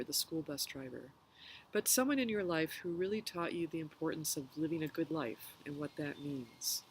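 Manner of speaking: calm meditation guide, pausing between phrases; unhurried guided reflection with long pauses. Real, not acted. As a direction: gently lead listeners through a reflection, leaving room to breathe.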